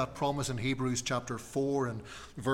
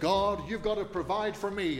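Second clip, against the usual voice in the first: fake put-on American accent, pitched up; 6 semitones higher than usual. Quoting people who demand that God provide, put-on American accent. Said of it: "I'm sorry to put on that American accent".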